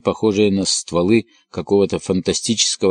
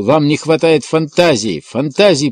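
громко, выше обычного выпалить; выкрикнуть, повышая голос; выпалил с жаром; 6 semitones higher, 4 dB louder than usual. A narrator's reading. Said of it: "и выпалил". (громко выпалил, повышая голос)

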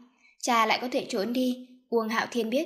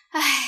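heavy, higher-pitched sigh; 4 semitones higher, 6 dB louder than usual. A narrator's reading. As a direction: let out a loud, acted sigh. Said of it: "Uông phu nhân thở dài". (thở dài)

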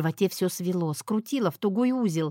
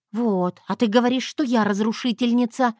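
ordinary delivery

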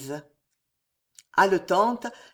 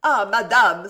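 louder, bursting out; grateful cry; 7 dB louder than usual. Acted. Marie crying out her gratitude to Jeanne. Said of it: "s'écria Marie avec un élan".

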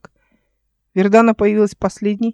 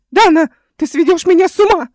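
high, loud hysterical shriek; hysterical wail; 10 semitones higher, 7 dB louder than usual. A narrator's reading. Uncle shrieking at his niece, hysterical. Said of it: "истерически завопил дядя".

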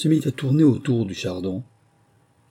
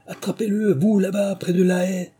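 rabbit shouting; 9 semitones higher than usual. A narrator's reading. The rabbit yelling orders to catch the lizard, high. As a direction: shout the order across the garden. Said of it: "la voix du lapin qui criait".

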